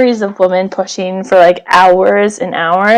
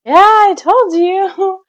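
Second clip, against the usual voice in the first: sarcastic; 9 semitones higher, slower than usual. Retold or imitated. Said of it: "And I was".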